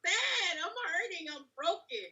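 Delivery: high, loud tearful shouting at the Lord; furious weeping protest, pitched high and loud; crying angry outburst at God. Retold or imitated. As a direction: sob and rage up at heaven. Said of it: "I immediately got angry".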